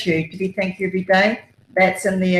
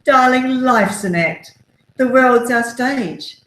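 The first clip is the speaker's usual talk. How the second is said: high, louder, drawn-out stage voice; very high-pitched theatrical auntie; 6 semitones higher, 4 dB louder, slower than usual. Retold or imitated. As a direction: play a grand, theatrical aunt declaiming. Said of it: "in a very high-pitched voice".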